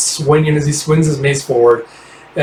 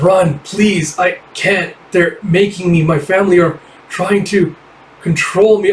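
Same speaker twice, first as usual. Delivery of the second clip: higher desperate plea; pleading, controlled; 5 semitones higher than usual. Acted. Joaquin begging Forever to run while his family controls him, higher plea. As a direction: beg her to run as you lose yourself. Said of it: "It's like".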